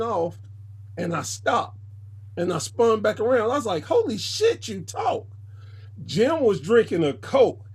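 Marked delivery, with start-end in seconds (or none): 3.8-5.3 sudden high squeal of shock; high-pitched disbelief. Retold or imitated. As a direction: blurt it out, stunned he spoke. Shocked blurt at silent wrestler.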